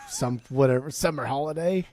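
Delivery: put-on half-hearted, botched German accent; weak stab at a German accent; bad German accent. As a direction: give up halfway through a poor German accent. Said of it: "that's not a good accent at all".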